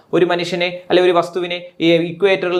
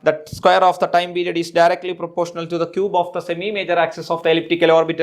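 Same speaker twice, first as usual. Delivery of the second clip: slow dictation; much slower than usual. Shown as a demonstration. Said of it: "dictating law slowly".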